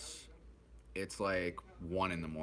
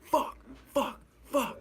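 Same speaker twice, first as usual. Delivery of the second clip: fuck, fuck, fuck shouted much higher and louder; yelling curses; 6 dB louder, slower than usual. Retold or imitated. Withdrawal kicking in at the bus stop, yelling fuck fuck fuck. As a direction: scream fuck fuck fuck into the night. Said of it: "yelling at".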